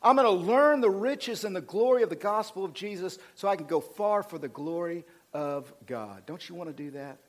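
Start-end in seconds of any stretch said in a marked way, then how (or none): 0.0-6.2 with attitude. Acted. Modelling a believer resolved to learn the faith, with attitude. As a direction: declare it with bold resolve. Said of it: "Let's get some attitude and go".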